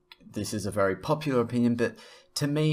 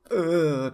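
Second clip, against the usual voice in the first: higher, louder groan of mock upset; mock whiny groan; 6 semitones higher, 6 dB louder than usual. Vlogger mocking people who cry about everything, whiny groan. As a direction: groan like an oversensitive complainer.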